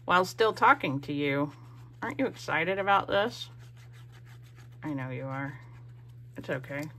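speaking with a pin between her teeth. Real, not acted. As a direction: talk through a pin held in her mouth. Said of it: "took that thing out of my mouth".

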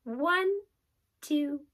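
counting while holding breath. Shown as a demonstration. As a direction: hold the breath, count slowly. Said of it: "takes a couple of practices".

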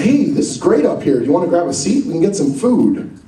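lightly acted upbeat invitation; friendly host. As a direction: imitate a pal welcoming you in. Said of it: "Scott said".

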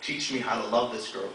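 hushed, measured poetic plea; spoken word poem. Acted. Poem winds down to close.

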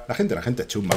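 understated imitation of a film character; film protagonist's tone. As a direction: quote the movie hero, low-key. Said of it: "Escuchad mi, mi tono".

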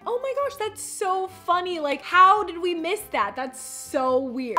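hammed-up innocent gasp; mock fake surprise. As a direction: overplay the surprise. Mocking Carrie's fake surprise.

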